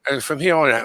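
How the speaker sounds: put-on British accent; phony British accent. Shown as a demonstration. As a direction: try on an amateur British accent. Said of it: "I'm gonna sound like this a little bit".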